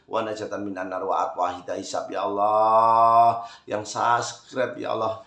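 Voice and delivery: fervent recited prayer calling on Allah. Acted. Blessing the subscribers, then praying in Arabic, earnest prayer voice. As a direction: pray it out earnestly, lingering on ya Allah.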